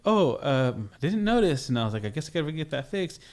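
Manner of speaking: mock-nervous reply; acting nervous. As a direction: play up being nervous at a traffic stop. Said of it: "all nervous, right? Like, I'm super nervous".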